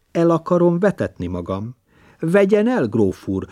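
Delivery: cheeky actress daring the countess; mocking provocation. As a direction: throw it at her, pitched high. Actress mother provoking grandmother.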